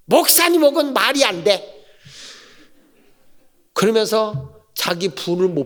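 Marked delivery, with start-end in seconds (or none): 0.1-1.7 higher, indignant deacon's retort; lightly voiced angry deacon; mock angry retort. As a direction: toss it back in a huff.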